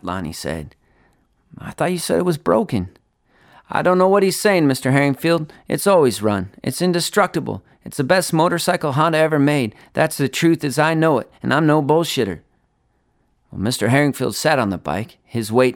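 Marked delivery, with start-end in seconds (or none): 1.6-12.4 put-on higher, eager young salesman; Lonnie's voice. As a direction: talk fast to save the sale. Lonnie defends the bike.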